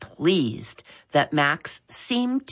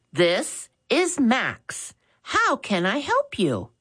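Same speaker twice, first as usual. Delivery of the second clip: respectful answer; 9 semitones higher than usual. Acted. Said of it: "he respectfully answered".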